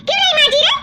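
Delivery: scolding. Acted. Sister-in-law demanding why the dishes are unwashed, angry. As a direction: push the question at her.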